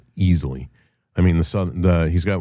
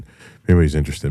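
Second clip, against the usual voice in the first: louder, faster, pushing on anyway; insistent; 4 dB louder, faster than usual. Real, not acted. Insisting on the tip after saying maybe not, louder. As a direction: override your own doubt and press the point. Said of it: "maybe not".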